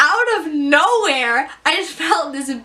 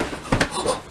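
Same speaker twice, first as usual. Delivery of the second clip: gasp; 5 dB quieter than usual. Retold or imitated. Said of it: "my dad's like".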